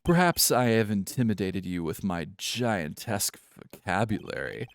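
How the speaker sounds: lightly posh British boastfulness; a hint of pompous, poorly done posh British. CEO showing off his vocabulary, posh British. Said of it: "Posh British".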